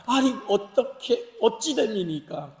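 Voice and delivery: drawn-out, mock-baffled objection; protesting. People rebuked for foreign marriages, protesting. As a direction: slowly stretch out the protest. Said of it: "이렇게 항변하죠".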